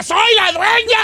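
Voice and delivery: hammed-up soap-opera cry of triumph; mock triumphant yell. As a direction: yell it out from the stormy mud like a telenovela heroine. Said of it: "se enloda y grita".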